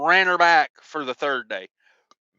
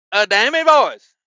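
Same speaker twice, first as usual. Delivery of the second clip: exasperated outburst; 5 semitones higher, 5 dB louder than usual. Retold or imitated. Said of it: "I said".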